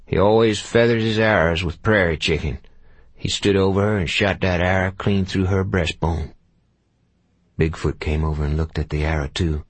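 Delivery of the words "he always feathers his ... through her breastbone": lightly voiced grizzled scout; a hint of an old Texas tracker; old frontier scout voice. Shadrach explains the arrow.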